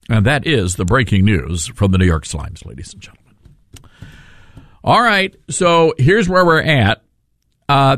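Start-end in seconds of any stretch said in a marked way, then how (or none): 0.1-3.3 breaking news anchor voice. Pretend. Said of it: "my breaking news anchor voice".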